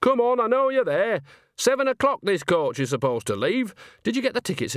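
Nanny calling out to the coachman. A narrator's reading. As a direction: call round the corner to the hidden driver. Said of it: "She raised her voice".

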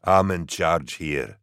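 a lightly voiced heavy soldier growling; a huge trooper growling while holding a driver by the throat; growled. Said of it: "he growled".

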